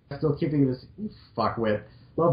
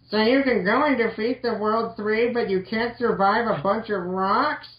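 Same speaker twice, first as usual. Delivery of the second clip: mock incredulous; 7 semitones higher than usual. Reads melodramatic fic line.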